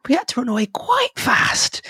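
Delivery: high whispered repeat; hushed aside. Acted. Halfling whispering the escape to the travellers, high and hushed. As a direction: breathe it like a frightened secret.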